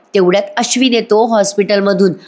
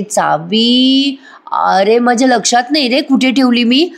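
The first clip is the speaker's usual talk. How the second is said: slow, startled, higher stammer; scared; 4 semitones higher, slower than usual. Acted. Priya panics when Ashwin asks for the key. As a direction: caught out, stall nervously. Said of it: "आता प्रिया घाबरते बरं का".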